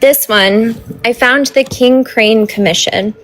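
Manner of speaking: talking through a mouthful of taffy; words round a chewy bite of candy; chewing sticky toffee. Real, not acted. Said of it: "sorry, I'm eating taffy".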